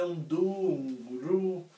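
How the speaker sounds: cushion the last note with du and ru; softened end note. Shown as a demonstration. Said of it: "nós vamos amortecer".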